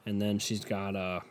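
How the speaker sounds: words stretched by a yawn. Real, not acted. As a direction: talk mid-yawn. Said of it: "can I stop fucking yawning".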